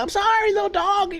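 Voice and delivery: high pleading coo to a dog; apologetic baby talk. Retold or imitated. Apologizing to the bitten dog, high pleading baby talk. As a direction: beg the hurt dog's pardon sweetly. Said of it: "I'm like".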